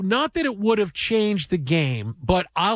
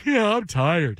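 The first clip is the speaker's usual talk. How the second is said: mock sleepy; slower than usual. Shown as a demonstration. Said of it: "stood over her and just went".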